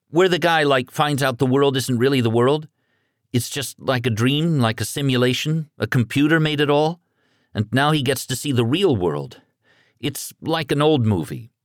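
put-on a shaken boy grasping for words; high, disbelieving teen rambling; rattled teenage Jacob. A narrator's reading. Jacob voiced in story.

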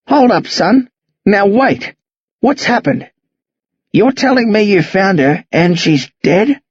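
firm, questioning interruption. Acted. Old man halting boy to ask what happened, assertive. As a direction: take control with mild assertiveness. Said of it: "He speaks stronger now, more assertive".

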